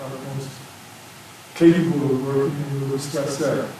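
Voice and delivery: muffled by a face mask; talking through a mask. Real, not acted. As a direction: speak from behind a mask. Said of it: "Did you take your mask off".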